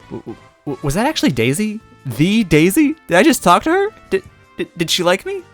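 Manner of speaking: high, loud stammering fangirl gush; breathless excitement. Acted. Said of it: "the hitch in her breath".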